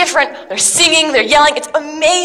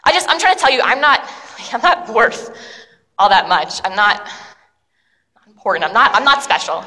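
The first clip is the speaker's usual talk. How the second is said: humble confession; 4 semitones lower than usual. Acted.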